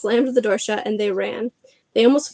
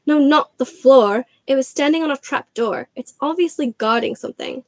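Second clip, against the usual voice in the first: exasperated; 4 semitones higher than usual. Acted. Hermione correcting Harry, exasperated. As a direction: correct them impatiently.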